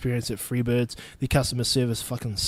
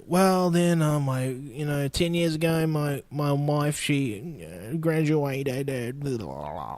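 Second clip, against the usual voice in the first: weary droning reply; 4 dB quieter, slower than usual. Retold or imitated. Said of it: "be like".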